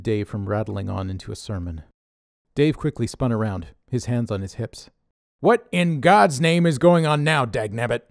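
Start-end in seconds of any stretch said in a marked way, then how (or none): 5.4-8.0 loud, higher exasperated yell. A narrator's reading. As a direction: bellow it at nobody in particular. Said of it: "he yelled out to no one in particular".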